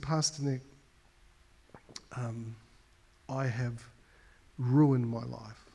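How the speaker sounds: a penitent man admitting his failures to his pastor, sinking into a whisper; broken confession. Retold or imitated. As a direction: confess it quietly, almost breaking.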